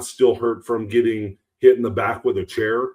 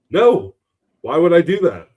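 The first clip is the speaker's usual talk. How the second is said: mock incredulous, a bit higher and louder; half-laughing retort; 5 semitones higher, 4 dB louder than usual. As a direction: scoff at the idea, amused. Mock answer to Larry.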